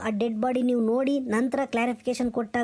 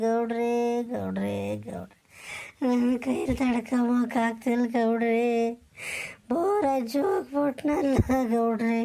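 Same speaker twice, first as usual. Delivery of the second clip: put-on drunken sobbing. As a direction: choke out the words through tears. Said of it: "ಅಳುಬೇಡ ಕಣಲ್ಲ". (ಗೌಡರ ಬಳಿ ಬಿಕ್ಕಿ ಅಳುವುದು)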